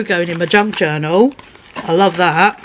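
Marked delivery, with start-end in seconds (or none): none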